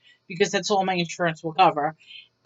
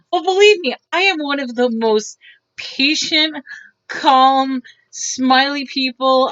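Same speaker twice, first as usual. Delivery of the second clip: earnest insistence; 4 semitones higher, 3 dB louder, slower than usual. Real, not acted. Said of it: "insisting she's patient".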